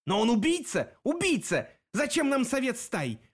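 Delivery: high insistent yelling; clamouring. A narrator's reading. Den yells at the pack, clamouring. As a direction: keep hollering убийца. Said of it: "продолжал голосить Дэн".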